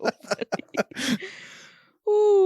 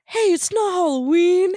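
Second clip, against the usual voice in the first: higher, lightly voiced kid; movie kid; 7 semitones higher, 4 dB louder than usual. Host retelling the kid's protest, higher mock-kid voice. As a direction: pipe up like an objecting kid. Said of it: "The kid's like".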